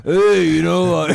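laughing put-on breathy voice; mock a sexy whisper while giggling; giggly mock whisper. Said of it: "we're all whispering".

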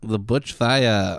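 slow, drawn-out Aussie vowels; Australian accent. Acted. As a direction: stretch it out in mock Australian. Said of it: "tell the story in an Aussie accent".

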